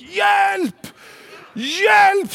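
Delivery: högt, utdraget panikskrik i ljust läge; skrik på hjälp. Retold or imitated. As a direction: skrik gällt efter hjälp som i dödsfara. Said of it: "Jag bara skrek". (ropar hjälp i panik)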